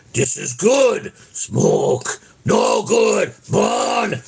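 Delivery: put-on slow, halting old-film voice; blind hermit impression. Quoting the blind man from Frankenstein, halting slow voice. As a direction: halt each word like the blind man. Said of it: "the little blind guy was that".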